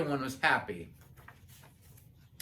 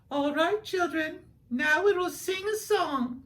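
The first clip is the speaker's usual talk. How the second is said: high, slow, sweet schoolteacher voice; teacher voice; 11 semitones higher than usual. Acted. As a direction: call the class together like a kind teacher. Teacher addresses the class.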